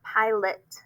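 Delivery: PILOT as PIE-lit, second vowel reduced; schwa pronunciation. Shown as a demonstration. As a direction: say PILOT clearly with a weak "lit" ending. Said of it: "But we're saying it".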